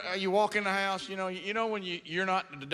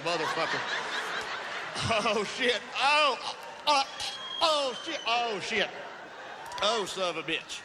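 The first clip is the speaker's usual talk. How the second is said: mouth-breathing through the mess and retching in disgust; gagging disgust. Retold or imitated. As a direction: gag and groan while scooping up warm dog poop. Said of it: "start that breathing out of your mouth like".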